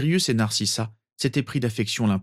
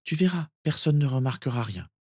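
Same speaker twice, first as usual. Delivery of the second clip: put-on higher-pitched girl's voice; lightly voiced girl, higher; girl reassuring cousin; 6 semitones higher than usual. Narcissa to little cousin as she hides sheets, reassuring.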